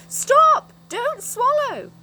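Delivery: very high, very loud, slowed yell; a frantic scream, then drawn-out words. Acted. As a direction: scream it to stop her. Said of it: "yelled Moonface suddenly".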